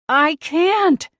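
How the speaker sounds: strained, high, teeth clenched; through gritted teeth. Acted. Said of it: "from behind gritted teeth".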